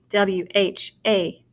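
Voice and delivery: slow "W H A", letter by letter; spelling aloud. Shown as a demonstration. Teacher starting to spell where, spelling aloud. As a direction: separate beats on "W H A". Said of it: "Let's spell it".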